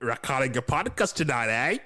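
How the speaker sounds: broad Aussie ocker question; bogan Australian accent. Acted. Co-host mimicking partner's accent, broad bogan Australian. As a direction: tease with a bogan Australian lilt.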